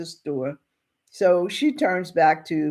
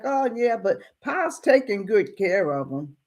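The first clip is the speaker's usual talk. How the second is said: a hint of a young boy, a bit higher; lightly voiced kid; 4 semitones higher than usual. Boy assures a man about his pa, lightly voiced kid. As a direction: lightly play an unworried kid. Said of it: "being a kid, he's like".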